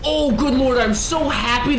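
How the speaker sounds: high, loud good lord; exasperated outburst. Real, not acted. Streamer reacting to the boss getting extra long, high loud outburst. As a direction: burst out in disbelief.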